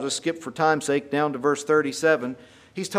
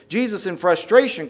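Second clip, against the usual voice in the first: frustrated outcry; 4 semitones higher, 5 dB louder than usual. Retold or imitated. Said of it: "cries out in the temple".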